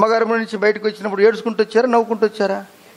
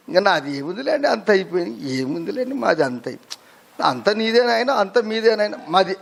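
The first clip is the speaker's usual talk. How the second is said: put-on soft, lower, tired old man with a little laugh; resigned old man; 3 semitones lower, 4 dB quieter than usual. Preacher voicing an old man handing everything to his son, soft and resigned. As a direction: sigh it out like a grandfather who has given up.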